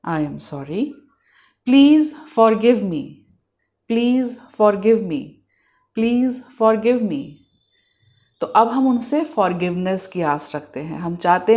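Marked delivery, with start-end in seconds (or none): 0.1-0.8 soft, lower-pitched apology; meditative affirmation. Shown as a demonstration. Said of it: "आंखें बंद करके in the moment आके". 1.7-7.2 very slow, measured request; meditative affirmation. Shown as a demonstration. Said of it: "आंखें बंद करके in the moment आके".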